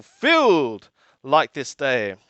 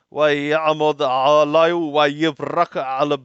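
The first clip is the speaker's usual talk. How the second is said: rapid recitation; 3 semitones lower, much faster than usual. Acted. Rapid Hebrew scripture recitation.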